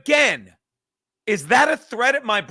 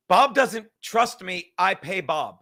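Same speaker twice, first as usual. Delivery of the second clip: mock quote, slow; 5 semitones lower, slower than usual. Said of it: "If you didn't catch that".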